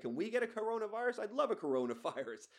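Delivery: put-on high-pitched loose African accent; put-on foreign accent. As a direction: imitate a baffled man in a badly faked South African accent. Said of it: "I don't know why I'm doing that accent".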